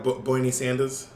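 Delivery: put-on "Bernie" as "Boyny", R dropped; can't say R's. Imitating kids who can't say R's, "Bernie" as "Boyny". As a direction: say "Bernie Sanders" without any R's. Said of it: "kids who can't say their R's".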